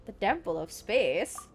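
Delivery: lightly mannered, wavering pitch; put-on watcher voice. Streamer retrying the watcher's line, mildly put-on voice. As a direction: play with the tune of the title. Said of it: "why I'm talking like that".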